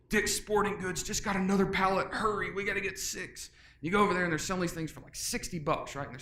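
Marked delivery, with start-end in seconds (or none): 0.1-3.5 higher excited wife voice; urgent call from the wife about a pallet; wife on the phone, higher and hurried; quoting his wife. Retold or imitated. Wife calling me going.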